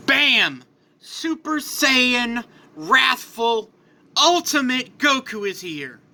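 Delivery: dramatic announcement. A narrator's reading. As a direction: announce the hero's arrival, word by word. Narrator announces transformation.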